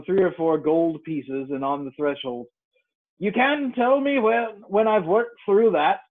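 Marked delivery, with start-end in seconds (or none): 3.2-6.0 put-on slow, commanding old sailor; fierce old sea captain. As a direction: give the order like a fierce skipper. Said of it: "looking as fierce as a commander".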